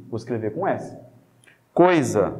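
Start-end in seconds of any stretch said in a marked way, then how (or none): 1.7-2.3 "Coisa" low, with the S voiced as Z; demonstrating Z sound. Shown as a demonstration. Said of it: "O som de Z".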